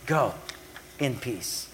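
soft, low, unhurried "Go in peace"; softly spoken "Go in peace"; gentle blessing. Shown as a demonstration. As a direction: bless her quietly.

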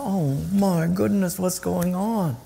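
slow, drawn-out astonishment; mock dismay. Acting out bewildered onlooker.

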